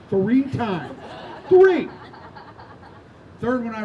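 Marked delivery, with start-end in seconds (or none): 1.5-1.9 shouted much higher and louder, laughing. Real, not acted. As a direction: bellow the number through a laugh. Punchline about his losses.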